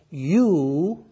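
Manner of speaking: "You" drawn out and set apart; stress on You. Shown as a demonstration. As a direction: give "You" its own emphatic beat. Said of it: "is emphatic".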